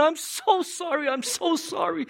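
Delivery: high-pitched, dramatic pleading; anguished apology. Acted. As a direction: act out a desperate, tearful plea for forgiveness. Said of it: "this level of pain and anguish and sincerity".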